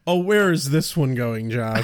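1 teasing call. Real, not acted. Teasing the co-host.

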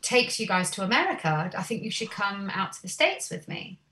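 lightly imitated American accent; imitating a singer. Musician inviting the band over to America, light American accent impression. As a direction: make the offer in a put-on American accent. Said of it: "I'll stop doing the accent now".

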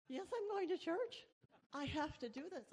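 retold defiant shout. Defiant retort retold to carers.

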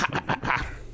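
badly faked penguin noise; short repeated penguin calls; penguin impersonation. Shown as a demonstration. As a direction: imitate a penguin, unconvincingly. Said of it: "That was my penguin impersonation".

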